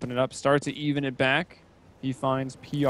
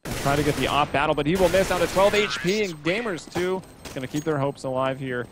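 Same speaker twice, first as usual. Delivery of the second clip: esports caster; 2 semitones higher than usual. Acted. Live play-by-play continues.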